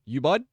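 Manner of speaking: "You bud" as a guess at the place name, YOO-bud; trying a pronunciation. Shown as a demonstration. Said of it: "How do you say Ubud?".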